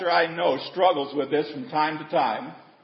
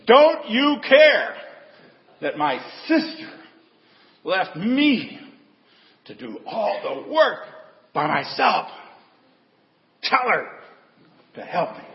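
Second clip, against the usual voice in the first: exasperated outburst; 4 semitones higher than usual. Retold or imitated. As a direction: burst out of the kitchen fed up. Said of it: "just come out of the kitchen".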